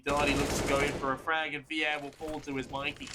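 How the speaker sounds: breathless caster running short of air; gasping through the call; out of breath. Real, not acted. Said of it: "I'm running out of breath".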